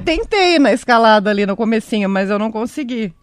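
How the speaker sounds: speaking with hiccups. Real, not acted. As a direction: hiccups breaking the words. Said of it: "Eu tô com soluço".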